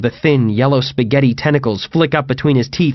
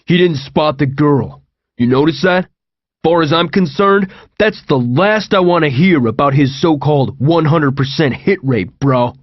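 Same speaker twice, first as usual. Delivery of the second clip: a mildly heated, accusing voice, a bit raised; accusing Owen; 3 semitones higher than usual. Acted. Owen to TJ about the missed girl, mild accusing heat. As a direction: jab each word like a pointed finger. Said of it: "Owen stomped up ... jabbed his finger".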